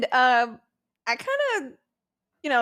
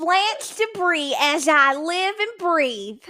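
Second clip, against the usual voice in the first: higher, slow Southern belle drawl on Blanche Debris, As I Live and Breathe; Hazel's Southern belle accent; 8 semitones higher, 3 dB louder, slower than usual. Shown as a demonstration. Asked by a friend to do Hazel's accent, slow high Southern belle. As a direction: drawl it out like a grand Southern lady. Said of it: "attempt it through Hazel's accent".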